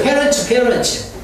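parents with a clear "ts" at the end, said slowly; parents, slow, stressing the ts. Shown as a demonstration. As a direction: drag out parents to show the final ts. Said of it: "T 다음에 S는 스로 발음해야 됩니다".

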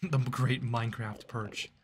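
slow, drawn out with a laugh; laughing repeat. Shown as a demonstration. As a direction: savor the phrase through a chuckle.

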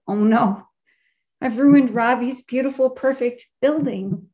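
panicked. Retold or imitated. Speaker to the listeners, reliving the moment she burned the toilet, in retold panic.

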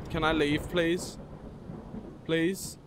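usual speaking voice

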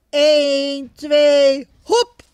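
loud rising count-off; Ricky calling the count. Acted. Ricky calling out the count to pull the sled, loud. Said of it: "roept Ricky".

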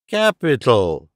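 slow, composed approval; calm. Acted. Holmes approving as his trick works, calmly. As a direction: say it slowly with calm satisfaction. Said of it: "said Holmes calmly".

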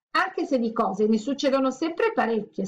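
lightly voiced squeaky little comet; squeaking. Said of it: "squittì".

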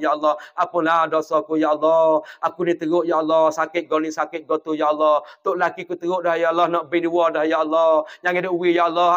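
a humble whispered-down supplication; demonstrated prayer. Shown as a demonstration. Preacher performs a sample night prayer.

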